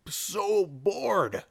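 very slow bored drawl. Retold or imitated. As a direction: drag it out, totally bored. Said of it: "I'm just like".

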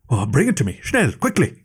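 urgent demand, voice jumping high on quickly; impatient scholar demanding the sword stick at once. Acted. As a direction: snap out the order, rising sharply at the end. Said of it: "he demanded".

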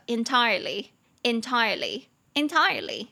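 slow "entirely" in British English; British pronunciation. Shown as a demonstration. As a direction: say "entirely" slowly with a British accent. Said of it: "这个是英式的发音".

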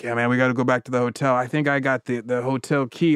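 bad fake Jamaican accent, quick; a drunk mangled Jamaican accent. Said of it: "speaking in a Jamaican accent".

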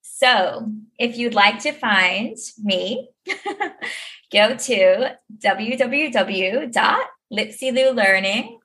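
put-on light Midwestern American accent, slowed, by an Australian. Australian guest asked for an American accent: mild American accent. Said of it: "in your best American accent".

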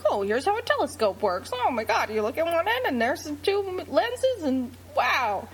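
put-on old-timey wide-eyed narrator voice; 1930s voice. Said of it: "You started to send it in a nineteen thirties voice".

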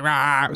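mock wail, roughly voiced; quick mock bawl; imitated crying daughter. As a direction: imitate a kid bawling. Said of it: "She's like".

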